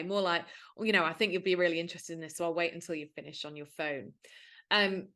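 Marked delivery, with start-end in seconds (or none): 0.8-4.1 soft, friendly and faster; non-passive-aggressive. Shown as a demonstration. Inviting a phubbing friend to listen, softly and friendly. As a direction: coax them kindly, no edge. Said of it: "In a non-passive aggressive way".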